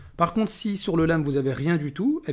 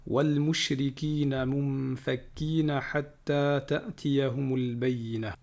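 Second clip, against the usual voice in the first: Quran recitation; 4 dB quieter than usual. Acted. Teacher reciting Surah Al-Bayyinah to students, chanted. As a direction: recite each word with care.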